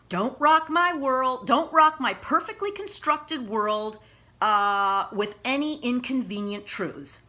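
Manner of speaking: throwing the words back in mock outrage; emotional mimicking. Real, not acted. Reading her letter to the hostess, getting emotional and mimicky. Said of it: "I'm getting a little mimicky, but I'm getting emotional".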